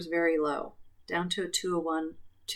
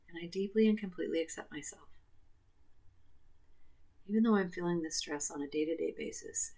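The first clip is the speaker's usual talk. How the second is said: guided tapping script; 4 dB quieter than usual. Acted. Final tapping round.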